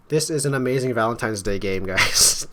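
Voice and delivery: loud, gushing mock praise; over-the-top hype for the viewers; mock enthusiasm. Real, not acted. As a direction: gush loudly about it, tongue in cheek. Mock praise of grim game.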